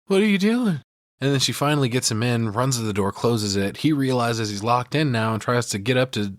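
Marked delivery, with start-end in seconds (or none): 0.0-0.8 dazed Jack with some humanity. Retold or imitated. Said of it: "He's like".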